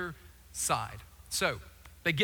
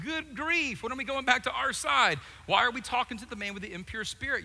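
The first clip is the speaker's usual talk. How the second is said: whiny disciples; 5 semitones higher than usual. Retold or imitated. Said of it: "the disciples are going".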